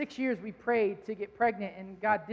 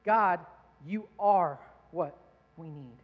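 quoting song lyrics, slow; slower than usual. Retold or imitated. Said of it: "it simply said this".

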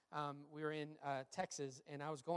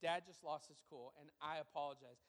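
retold sincere apology; 2 semitones lower, 4 dB quieter than usual. Retelling a dad's apology to son.

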